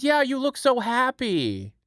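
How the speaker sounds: high-pitched imitation of a wife; imitating wife. Wife's remark acted out in retelling.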